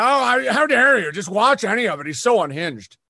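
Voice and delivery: high, loud, prissy mock indignation; hammed-up offended gasp at the idea; mock outrage. Comedians sneering at him, mock outraged and shrill. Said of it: "And they're like".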